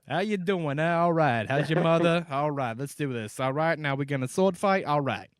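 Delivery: put-on a light, loud-ish Boston accent; a Boston guy cheerfully greeting everyone. Mocking Mark Wahlberg as Geralt, lightly voiced Boston accent. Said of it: "Geralt from Boston".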